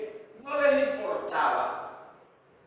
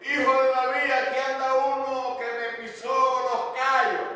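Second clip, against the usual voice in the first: higher, rushed mock complaint; queja fingida; 6 semitones higher, faster than usual. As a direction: parody a prayer turned into petty griping. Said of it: "Ni tampoco está diciendo". (queja fingida, aguda y atropellada)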